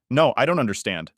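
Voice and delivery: rising anger. Acted. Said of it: "my voice getting louder".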